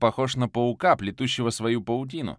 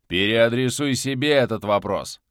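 louder, cutting reply; harsh retort; 6 dB louder than usual. Acted. Viktor cuts off his prisoner, harsh and louder. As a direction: snap the question back at him. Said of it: "жёстко отрезал Виктор".

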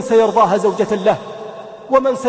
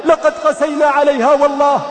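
retold scream; 4 semitones higher than usual. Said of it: "صرخت في وجوههم".

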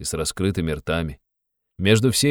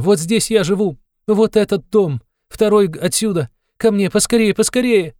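high, loud, hurried pleading; frantic urging; 13 semitones higher, 5 dB louder than usual. A narrator's reading. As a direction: rush everyone along, frantic. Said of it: "металась она ко всем". (высоко, громко, суетливо)

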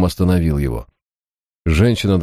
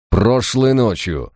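menacing; 6 semitones higher, slower than usual. A narrator's reading. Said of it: "угрожающе напомнил Харснет".

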